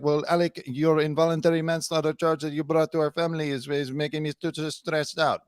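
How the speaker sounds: imagined wife in mock-Spanish accent; light put-on Spanish accent; fake Spanish accent. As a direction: parody her complaining in a fake Spanish accent. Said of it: "do this Spanish accent thing".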